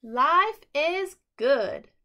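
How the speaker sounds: slow, high, loud happy cry; joyful shout. A narrator's reading. Friends shouting with joy running to school. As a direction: cheer it out. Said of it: "screamed as they ran".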